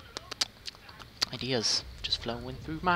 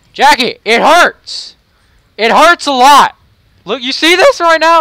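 mock wailing in pain, much higher and louder, building to near-shrieks; hammed-up fake crying; 7 semitones higher, 21 dB louder, slower than usual. Whining to Jackie in a game that his attack hurts, hammed-up fake crying. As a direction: overplay being hurt like a whiny child begging Jackie to stop. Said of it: "I'm crying".

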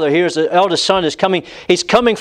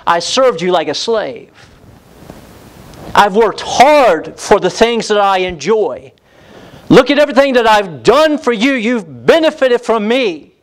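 brazen complaint; 5 semitones higher than usual. Acted. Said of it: "this brazen tone".

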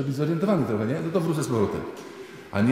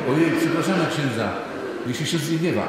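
flustered apology; 4 semitones higher than usual. Acted. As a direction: blurt the apology, embarrassed.

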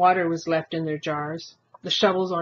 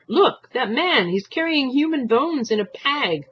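raised, higher urgent call; half-shouted warning, slowed and higher; 8 semitones higher, 4 dB louder than usual. A narrator's reading. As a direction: blurt it out to the whole car. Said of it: "and shout".

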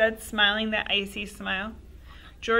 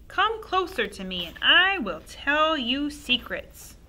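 put-on coaxing old woman; 7 semitones higher, 5 dB louder than usual. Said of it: "she said, beckoning him".

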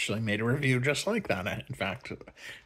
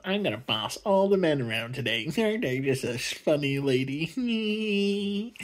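smug mock lady voice, higher at the end; mock Admiral Holdo; 4 semitones higher than usual. Admiral Holdo bossing the men around, smug mock voice. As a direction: gloat like a smug villain. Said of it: "And she's like".

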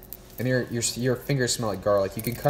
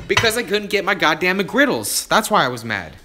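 mock angry rant; 7 semitones higher, 8 dB louder than usual. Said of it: "And I'm like".

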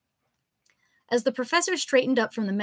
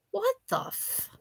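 surprised; 13 semitones higher, 4 dB quieter, slower than usual. Acted. Narrator startled by intruder.

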